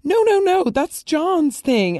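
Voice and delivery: insist, almost pleading, that it's his thing; high protest. Real, not acted. Protesting a plot twist.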